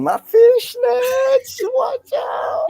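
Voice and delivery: very high, loud, slow mock squeal; playful squeal. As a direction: squeal it out like a flirty tease. Teasing flirty fishnets joke.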